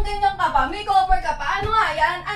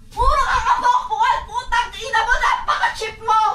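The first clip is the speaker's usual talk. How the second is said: yelled reproach; angry shout. Acted. Sister yelling at the teen about her parents, angry shout.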